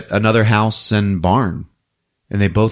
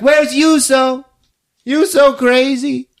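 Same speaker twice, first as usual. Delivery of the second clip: very high, stretched mock calling; high frantic voice; 3 dB louder, slower than usual. Pietri asks where Juuso is, imitated high and frantic. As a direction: call it out in an exaggerated high voice.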